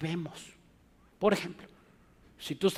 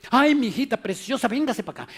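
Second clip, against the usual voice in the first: high, loud cooing to a favorite daughter; doting parent; 6 semitones higher, 5 dB louder, faster than usual. Retold or imitated. Preacher voicing a parent doting on the favorite, high cooing. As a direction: gush over the favorite child. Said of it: "parent favoring one child".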